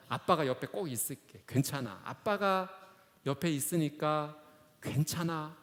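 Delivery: lightly voiced soothing father; retold father's reassurance. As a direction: gently settle a child back to sleep. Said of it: "이 아이를 이렇게 안심시켜주면서".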